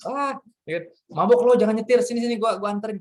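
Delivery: high, loud urging; concerned friend. Retold or imitated. Friend tells the drunk not to drive, urgently. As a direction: insist on taking the keys.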